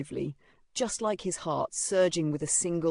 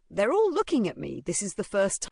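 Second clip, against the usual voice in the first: excited; 5 semitones higher, 4 dB louder than usual. Acted. Excited inner thought.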